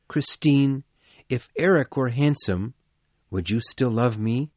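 lightly voiced Raoul asking why; Raoul, puzzled. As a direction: push gently, half worried.

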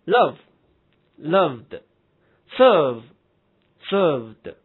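"loved" and "served" ending in a voiced d; slow, loud drill, d added to "loved", "served". Shown as a demonstration. Teacher drilling silent-e verbs, "served" ending in voiced d. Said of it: "读音也是的".

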